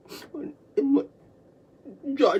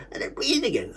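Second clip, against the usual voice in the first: whispering; 6 dB quieter than usual. Real, not acted. Breath returns.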